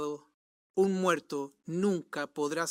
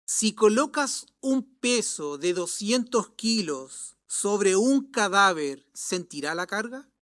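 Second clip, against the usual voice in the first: kindly reply. Acted. Preacher answers the scoffing young man, kindly. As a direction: gently lead him to the answer. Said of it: "respondió amablemente".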